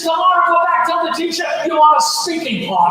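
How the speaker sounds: mock mom yell. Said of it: "She starts screaming".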